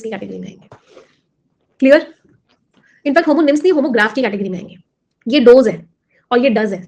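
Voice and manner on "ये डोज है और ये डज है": डोज like "doze", then डज like "duz", slowly; two pronunciations contrasted. Shown as a demonstration. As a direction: set डोज against डज, each sound clear. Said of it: "pronunciation अलग-अलग है". (डोज और डज, धीरे और साफ़ फ़र्क के साथ)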